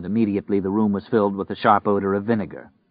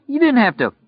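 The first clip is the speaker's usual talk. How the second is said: high-pitched holler of protest; 4 dB louder than usual. Acted. Robber protesting to his trigger-happy partner, hollering. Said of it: "Lloyd hollered".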